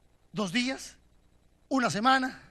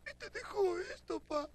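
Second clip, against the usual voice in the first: put-on hushed child; 7 semitones higher, 10 dB quieter than usual. Child hands father letter.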